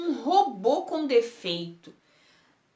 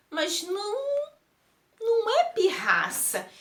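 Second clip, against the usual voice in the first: tearful plea; 8 semitones higher than usual. Acted. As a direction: voice breaking into a high tearful plea. Pleading not to be blamed. (súplica chorosa, com a voz embargando)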